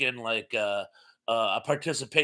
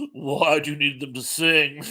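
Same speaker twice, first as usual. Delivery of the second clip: cheeky, laughing. Retold or imitated. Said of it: "In this very sort of cheeky manner".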